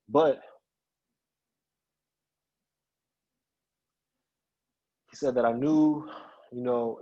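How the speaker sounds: real emotion, halting between phrases; holding back feeling while retelling; emotional. Real, not acted. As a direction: struggle through it with long pauses. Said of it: "I always get emotional talking about it".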